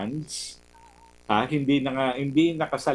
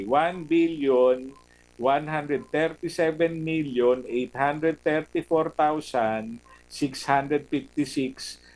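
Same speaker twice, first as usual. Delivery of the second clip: slow careful read of figure; slower than usual. Shown as a demonstration. Commentator rereads the budget figure correctly, slowly. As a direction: slowly spell out each number, deliberate.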